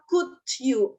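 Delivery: "could" said slowly without any L sound; silent L. Shown as a demonstration. Teacher shows students how to read "could you", silent L. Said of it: "L-nya nggak usah dibaca".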